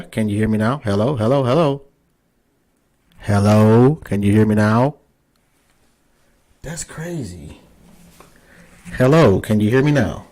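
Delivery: loud, repeated call into a mic that isn't working; shouting to be heard over a bad connection. Real, not acted. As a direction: raise your voice so the far end can hear.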